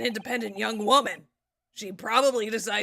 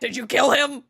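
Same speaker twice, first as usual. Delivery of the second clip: accusing shout; 2 semitones higher, 5 dB louder than usual. Retold or imitated. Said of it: "That's my favorite line".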